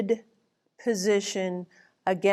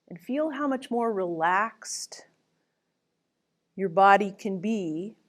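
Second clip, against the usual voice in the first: whispering. Real, not acted. Instructor whispers a relaxation cue.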